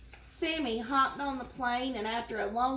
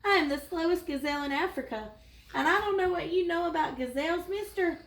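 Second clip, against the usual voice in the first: fast, higher-pitched nervous chatter; nervous gazelle; 6 semitones higher, faster than usual. Acted. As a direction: rattle it off like a jittery gazelle. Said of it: "found an extremely nervous gazelle".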